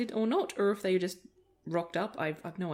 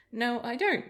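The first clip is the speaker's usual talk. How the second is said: puzzled reply, pitched up; retold confusion; 5 semitones higher, 3 dB louder than usual. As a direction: answer as if baffled, lightly re-enacted. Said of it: "in confusion".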